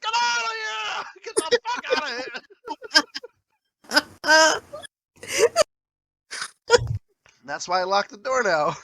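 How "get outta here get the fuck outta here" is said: very high, strained yell; re-enacted shriek of protest; retold outraged scream. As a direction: scream them out of the room. Acts out yelling at shower intruder.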